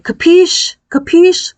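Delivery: high, rising mock demand; imitated yelling. Father demanding the kids answer, imitated high yell. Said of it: "He would yell at us".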